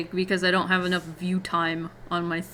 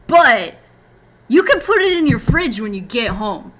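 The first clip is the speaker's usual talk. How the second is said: sweetly polite but plainly annoyed; clearly annoyed; 4 semitones higher, 6 dB louder than usual. Retold or imitated. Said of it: "very clearly annoyed".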